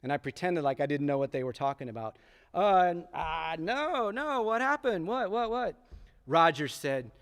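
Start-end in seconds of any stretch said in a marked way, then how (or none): 2.5-5.8 high, flustered playing-dumb questions; fake innocent surprise. Boy feigning ignorance to his friends, high fake surprise. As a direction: pretend you have no idea, too eagerly.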